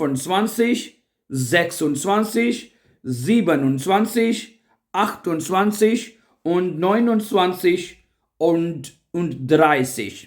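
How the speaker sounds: very slow, drawn-out German counting. Shown as a demonstration. Teacher counts up to dreißig slowly for students. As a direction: stretch each number out for learners. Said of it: "counting demo".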